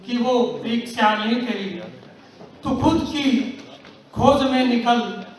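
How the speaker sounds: measured, declaimed verse with long pauses; rousing verse, falling away on the refrain; poem recitation. Acted. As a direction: recite it deliberately, letting each line's ending sink.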